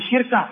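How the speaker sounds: شركة as shirka, kasra on the sh; vowel moved to first letter. Shown as a demonstration. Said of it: "بنقل حركة الوسط إلى الفاء". (شركة بكسر الشين وتسكين الراء: شِرْكة)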